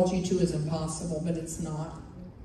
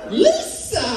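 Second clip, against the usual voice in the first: calling out; 12 semitones higher, 5 dB louder than usual. Pretend. Calling out to a listener.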